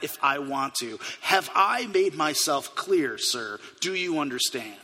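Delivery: domineering officer. Retold or imitated. Officer lectures rancher with badge.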